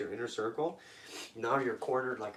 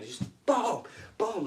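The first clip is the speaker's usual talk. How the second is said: high-pitched punchy booms; imitated blows; 8 semitones higher, slower than usual. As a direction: voice the blows as they land. Imitates repeated blows landing.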